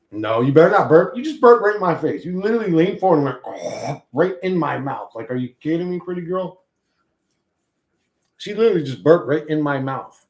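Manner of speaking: loud, high disbelief at the dog's burp; disgusted surprise. Real, not acted. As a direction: react to a burp in your face. Dog burped in her face.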